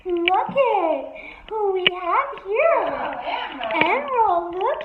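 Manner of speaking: slow, high coo to the bird; pet talk. Real, not acted. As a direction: draw it out sweetly for the pet.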